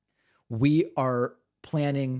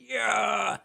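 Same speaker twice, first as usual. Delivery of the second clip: higher, drawn-out imitation of a cheering crowd; mock crowd cheer; 8 semitones higher than usual. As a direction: lightly mimic an audience cheering along. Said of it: "And everybody goes".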